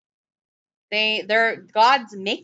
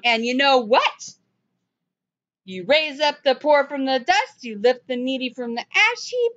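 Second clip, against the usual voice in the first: higher-pitched mocking retelling; mock prayer with attitude; 3 semitones higher than usual. Preacher parodying her prayer to prove it absurd, mock-indignant. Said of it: "attitude from this woman".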